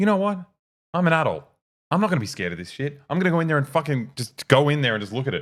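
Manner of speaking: play-acted, high, snapped, defiant burst of resolve. Retelling a dream, deciding to face a scary voice: retelling snapping in defiance. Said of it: "at one point I snapped".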